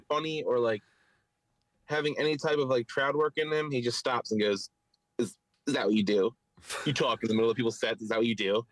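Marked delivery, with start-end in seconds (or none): 5.2-8.7 low, mildly snotty challenge; rude tone. Retold or imitated. Imitating a comic scolding a heckler, mildly rude and low. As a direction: imitate a rude, lowered-voice put-down. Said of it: "rude tone".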